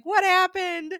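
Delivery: high, loud retold curiosity; agog question. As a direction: act out followers demanding the story. Commenters' eager question, acted out.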